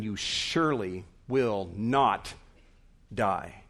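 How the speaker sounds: "You surely will not die" in weighty, separated words; deliberate emphatic denial, pausing before "die". Acted. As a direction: set "not" apart, then pause and drop low on "die". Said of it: "he's not afraid to be emphatic here".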